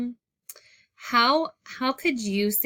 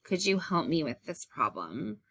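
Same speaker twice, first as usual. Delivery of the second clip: softer, sad-sounding plea for help; gentle no-blame request; 3 semitones lower, 5 dB quieter than usual. Shown as a demonstration. Teacher modeling a calm request to a classmate, softly. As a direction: ask kindly, letting the hurt show quietly. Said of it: "But I would say".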